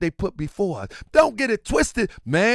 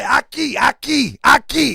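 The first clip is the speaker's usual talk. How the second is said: mock shout; 3 semitones higher, 4 dB louder, slower than usual. Shopper answering where the rice is, mock shout. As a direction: call it out with mock urgency.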